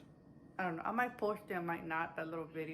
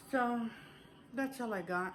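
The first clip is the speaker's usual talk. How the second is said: breathless, catching her breath; winded, talking between breaths; 4 semitones higher, 3 dB louder than usual. Real, not acted. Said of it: "I'm a little out of breath".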